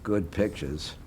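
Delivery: clipped Boston Brahmin speech; Boston Brahmin accent. Real, not acted. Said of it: "I love this guy's accent".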